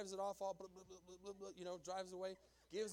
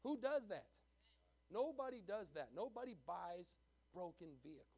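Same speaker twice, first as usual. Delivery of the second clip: incredulous exclamation; 5 dB louder than usual. Real, not acted. Pastor marvels at the buyer's generosity, incredulous.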